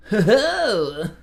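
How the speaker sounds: laughing triumphant ho-ho; gleeful laugh. Real, not acted. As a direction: chuckle at your own clever fix. Triumphant at own trick.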